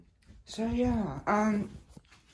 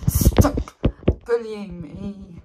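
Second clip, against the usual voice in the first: mock arguing; 8 dB louder, slower than usual. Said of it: "I'm gonna argue with a piece".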